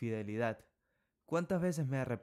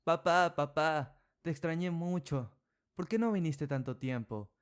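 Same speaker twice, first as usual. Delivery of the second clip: put-on high, loud burst of a delighted child; little girl's joyful high cry; excited child; 5 semitones higher, 4 dB louder than usual. A narrator's reading. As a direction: call papá high and loud, overjoyed.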